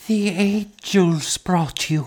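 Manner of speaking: whispering. Narrator reads the mother, opening her eyes to see Edith, whispering. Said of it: "she whispered".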